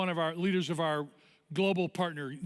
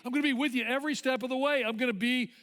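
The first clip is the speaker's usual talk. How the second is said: insistent promise climbing higher with each phrase; Jesus; 5 semitones higher than usual. Acted. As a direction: preach the promise, building to a high, quicker finish. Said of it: "he says".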